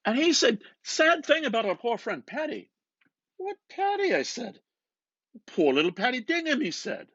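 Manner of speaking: McCoy buttonholing Bloom, loud and eager; McCoy's voice. Acted. McCoy retelling his talk with Hoppy.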